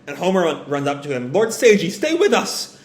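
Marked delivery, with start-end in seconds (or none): 1.3-2.8 desperate plea. Retold or imitated. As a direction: plead with a dying man. Pleading with dying man.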